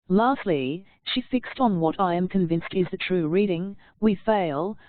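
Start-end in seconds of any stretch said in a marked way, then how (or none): 4.0-4.8 "We fail" said as a plain settled statement; simple period. Shown as a demonstration. Lady Macbeth settling the matter with a full stop. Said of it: "with the simple period".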